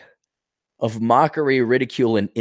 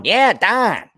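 Minnesota voice, higher, Dawn said as Don; Minnesota accent; 9 semitones higher, 3 dB louder than usual. Retold or imitated. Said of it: "do not distinguish between Dawn".

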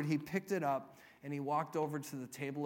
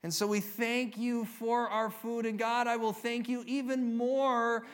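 lightly voiced child saying grace, measured and deliberate; a hint of a six-year-old praying; imitating child's loud prayer; 4 semitones higher, slower than usual. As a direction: recite a child's grace with slow, spaced-out phrases. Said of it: "he prayed nice and loud".

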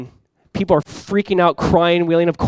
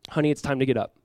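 soft, gentle wake-up call; tender waking; 3 semitones lower, 6 dB quieter than usual. Retold or imitated. Jesus to the dead girl, tenderly waking her. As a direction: wake a child softly.

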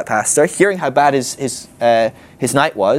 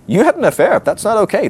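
firm confrontation; 8 semitones higher than usual. Retold or imitated. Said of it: "it's okay to go".

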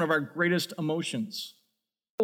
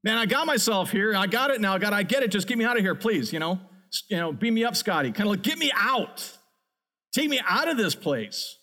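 pleading prayer; 2 semitones higher than usual. Retold or imitated. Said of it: "belly of the whale prayer".

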